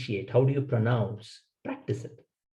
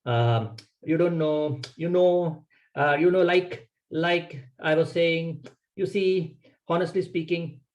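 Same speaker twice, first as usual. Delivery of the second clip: filler words demo; 3 semitones higher, slower than usual. Shown as a demonstration. Speaker showing the audience bad filler habits, hesitant. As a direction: rattle off ums and you-knows as a nervous speaker would. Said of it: "Try not to use filler words like".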